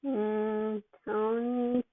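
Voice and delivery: drowsy, mumbled syllables; slurred mumble. Acted. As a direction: slur it like a drugged kid. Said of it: "a jumbled up mess of syllables".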